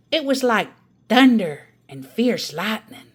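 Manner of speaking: a grandmother topping her sister's story; Grandma's storytelling voice. Acted. Grandma tells her tale.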